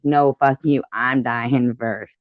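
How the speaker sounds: loud indignant yelling at a friend; loud mock outrage, fighting to go first; outraged refusal. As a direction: shout it like you refuse to die second. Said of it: "I would be like".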